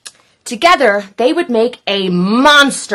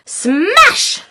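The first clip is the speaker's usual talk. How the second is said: 1 shouted smash; 10 semitones higher than usual. A narrator's reading. Monster sound words read aloud.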